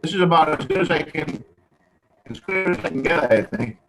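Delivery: breaking-up phone line; bad connection, audio cutting out; crackly phone. Real, not acted. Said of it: "Yeah, you're all crackly".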